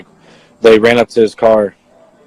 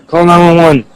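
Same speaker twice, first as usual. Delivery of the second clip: higher, mildly raised retold scream; 6 semitones higher, 4 dB louder than usual. Witness repeating his cry for help, mock screaming. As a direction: imitate an urgent shout for help. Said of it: "I started screaming".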